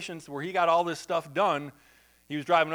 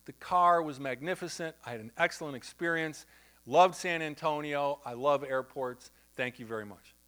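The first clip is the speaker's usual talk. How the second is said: ventriloquist dummy; 3 semitones lower than usual. Retold or imitated. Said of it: "felt like he was a ventriloquist dummy".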